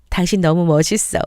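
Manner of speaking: plain reading voice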